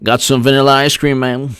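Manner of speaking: mock old politician. Same character.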